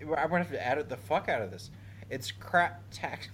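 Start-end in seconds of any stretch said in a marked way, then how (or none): 2.1-3.3 suppressed giggle. Real, not acted. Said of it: "I'm so close".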